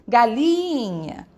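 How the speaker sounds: GALINHA very slow, with a long drawn-out LI; stress on LI. Shown as a demonstration. Teacher calling the word to show tonic syllable, prolonged LI in "galinha". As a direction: stretch the middle syllable of "galinha". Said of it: "a que eu chamo mais forte é a sílaba tônica".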